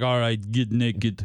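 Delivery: low, slow masseuse voice; deep slow professional murmur. Retold or imitated. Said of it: "that's my masseuse voice".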